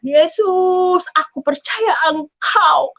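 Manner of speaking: slow, crying plea to Jesus; tearful prayer. Retold or imitated. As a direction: pray through tears, pleading. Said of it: "kata saya". (doa sambil menangis, lambat)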